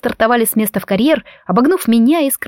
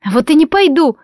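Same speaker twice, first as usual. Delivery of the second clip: high, loud defiant bark; barked defiance; 5 semitones higher, 4 dB louder than usual. A narrator's reading. Frightened girl barks back at the bullies, high and loud. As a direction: snap back, covering fear. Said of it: "рявкнула я".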